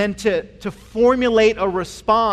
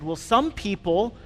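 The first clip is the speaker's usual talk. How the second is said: mock pastoral hedging; slower than usual. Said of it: "I responded very pastorally".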